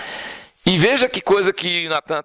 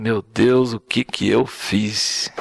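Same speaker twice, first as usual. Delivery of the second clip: remorseful; 5 semitones lower, much slower than usual. Retold or imitated. David realizes his sin.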